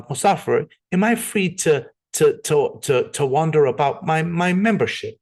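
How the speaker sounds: lightly put-on British lady, halting as she asks; playful, rough stab at a British accent; attempted British accent. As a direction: imitate a British woman asking tentatively. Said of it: "my impression of trying to do a British accent".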